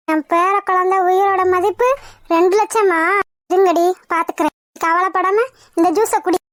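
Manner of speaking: lightly voiced protective mother-in-law; stern but comforting mother-in-law. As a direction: comfort her while vowing revenge.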